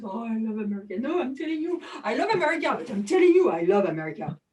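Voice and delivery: imitating an American accent with swooping pitch. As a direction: put on an exaggerated American accent. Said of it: "was American to have this accent".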